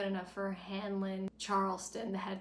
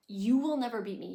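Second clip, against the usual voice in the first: louder, stressed on never; threatening Paris; 2 semitones higher, 7 dB louder than usual. Retold or imitated. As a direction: vow it fiercely.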